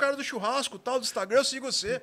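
excited fan. Retold or imitated. Fan recognizing him, excited quote.

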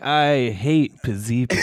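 A rapper. Pretend. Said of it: "the rapper's like".

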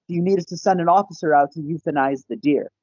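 lightly voiced dispatcher, high and quick; police dispatcher. Dispatcher asking about the injured deer, lightly imitated, high and quick. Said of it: "I hear dispatch go".

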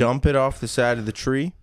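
Southern father teaching his son; Southern accent. Acted. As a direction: instruct like a country dad with a Southern accent. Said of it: "Southern accents?".

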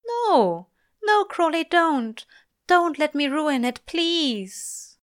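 high, loud begging; desperate plea. A narrator's reading. Angel begging Crowley to stop, desperate. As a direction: beg him urgently in a high voice.

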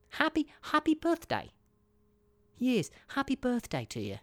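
very high squeaky Australian birthday wish; mock Australian accent. Shown as a demonstration. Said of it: "That's Australian".

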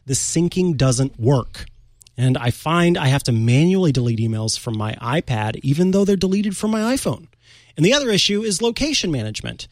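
lively, presenterly read-aloud; listener letter read aloud. Acted. Host reads Paul's beta question to the audience, lively read-aloud. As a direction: read it out with lifted phrase openings.

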